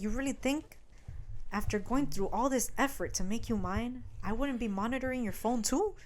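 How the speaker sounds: soft-spoken captor, keeping it level; quiet menace. Retold or imitated. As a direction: imitate a possessive stalker, hushed.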